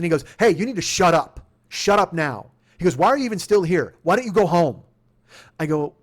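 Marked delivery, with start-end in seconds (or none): 0.4-2.5 loud, curt order; cop yelling. Retold or imitated. Cop silencing the protesting driver, yelling. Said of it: "I'm getting yelled at by cops". 3.0-4.8 loud, impatient dismissal; cop yelling. Retold or imitated. Cop telling the driver to go home, yelling. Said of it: "I'm getting yelled at by cops".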